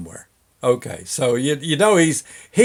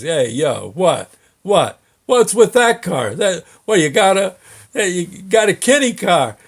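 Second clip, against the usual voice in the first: mocking greaser heckle; taunting tough guy; 3 semitones higher than usual. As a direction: jeer at the driver like a street tough.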